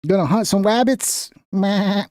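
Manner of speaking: half-hearted cartoon hunter impression; Elmer Fudd. Host teasing about the guest's look, fumbled cartoon impression. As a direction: try a cartoon hunter voice, barely getting it. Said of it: "I forgot the Elmer Fudd impression".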